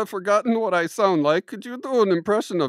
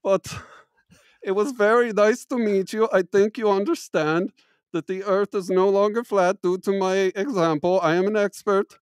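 mock German accent. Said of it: "my accent goes in and out".

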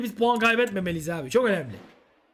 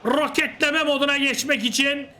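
rising, quickening commentary; excited play-by-play; 4 semitones higher than usual. Acted. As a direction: build the tension of the breakaway. Live play-by-play as counterattack builds.

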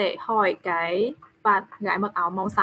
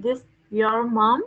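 slow model reading; slower than usual. Shown as a demonstration. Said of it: "con nói nào".

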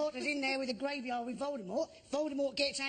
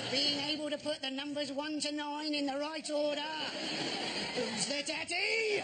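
triumphant bloke; 2 semitones higher than usual. Retold or imitated. Bloke on a train celebrating his Sudoku. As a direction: crow about the puzzle to the carriage. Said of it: "he went".

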